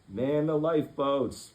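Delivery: loud, slow command; order. Acted. Jonathan ordering the crew to the lifeboats, loud. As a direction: take charge of the crew. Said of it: "ordered Jonathan".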